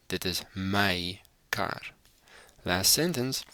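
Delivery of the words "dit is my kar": whisper. Acted. Recaps the Afrikaans sentences.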